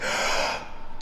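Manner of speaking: sharp demo gasp of air; big breath in. Shown as a demonstration. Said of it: "Looks like this".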